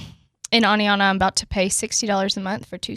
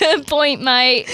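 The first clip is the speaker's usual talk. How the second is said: put-on Australian accent; 3 semitones higher, 3 dB louder, much slower than usual. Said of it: "work on your Australian accent".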